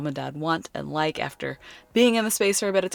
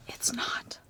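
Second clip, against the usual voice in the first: hushed, voiceless aside; whispered disbelief; 11 dB quieter than usual. Real, not acted. Reading the gluten-free checklist on a label, whispered disbelief. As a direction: whisper it as the truth lands.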